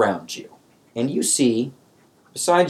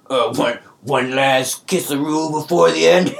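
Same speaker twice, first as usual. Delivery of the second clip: laughing; 5 semitones higher, 4 dB louder than usual. Acted. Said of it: "He's just like".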